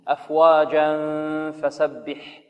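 أفواجا فسبح joined, the tanween hidden with a nasal hum; nasal ikhfa. Shown as a demonstration. Teacher demonstrates ikhfa with nasal hum. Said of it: "هكذا".

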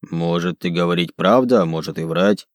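low orc musing in broken speech; broken Dwarvish. Acted. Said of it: "на ломаном языке гномов".

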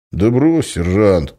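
ordinary delivery, nothing marked

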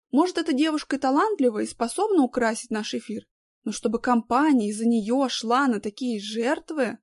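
высокий недовольный женский голос; спорит с обидой и раздражением; возмущённая начальница. A narrator's reading. Любовь Марковна voiced. (возмущённая дама)

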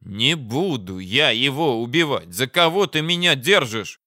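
mildly exasperated protest; affronted, losing patience; indignant. Acted. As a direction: let patience start to slip, pitch rising toward the end. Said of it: "возмутился я, начиная терять терпение".

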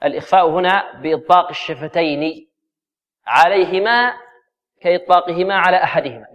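measured recitation of the rule; formal citation; quoting a classical text. Shown as a demonstration. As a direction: read the quotation deliberately. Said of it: "كما قال الداني".

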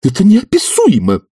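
high-pitched outburst of outrage; exclaiming. A narrator's reading. Young visitor is stunned by the professor's demand, exclaims high. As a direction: burst out high in a youthful voice. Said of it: "воскликнул юноша".

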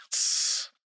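sharp unvoiced shush; hushing sound. A narrator's reading. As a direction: silence him urgently. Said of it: "hushing Pugovkin". (резкое шиканье)

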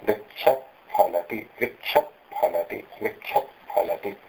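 वृक्ष फलति with a half visarga breathed into फ; upadhmaniya. Shown as a demonstration. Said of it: "ये उपधमानीय उच्चारण". (उपध्मानीय उच्चारण)

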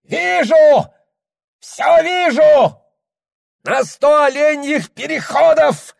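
high, loud ecstatic cry; piercing shout. Acted. Shaman cries his vision to the tent, high and loud. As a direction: scream out the vision. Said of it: "Громко, пронзительно крикнул шаман".

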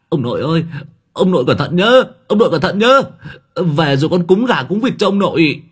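loud, high call back. A narrator's reading. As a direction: shout back over your shoulder. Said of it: "Ông Hải còn cố với lại".

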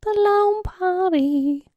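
dramatic announcer. Pretend. Mock sad song title.

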